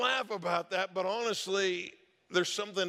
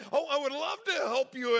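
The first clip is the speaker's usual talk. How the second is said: gushing fake helpfulness, high and louder; mock eagerness; 9 semitones higher, 5 dB louder than usual. Staffer plays along with a scammer, mock gushing. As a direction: pretend to be thrilled to help. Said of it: "he decided to have some fun with it".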